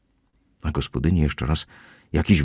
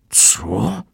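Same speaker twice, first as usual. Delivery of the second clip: shriek; 6 semitones higher than usual. A narrator's reading. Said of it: "wrzasnęła gospodyni".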